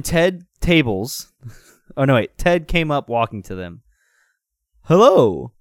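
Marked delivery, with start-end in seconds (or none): 4.8-5.5 loud, friendly hello in character; acted friendly greeting. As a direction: greet strangers heartily. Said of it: "he said in a friendly voice".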